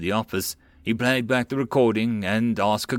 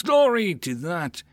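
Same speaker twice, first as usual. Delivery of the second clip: mock pompous lady; 7 semitones higher, slower than usual. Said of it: "All she talks about is".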